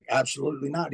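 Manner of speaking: low, soft and final, a father shutting it down; lightly voiced old father, quiet and firm; father's flat refusal. Father refusing son's offer to take charges, low and quiet. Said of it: "And he".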